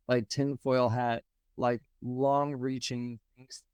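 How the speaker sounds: inside a fishbowl. Real, not acted. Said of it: "you sound like you're in a fishbowl all of a sudden".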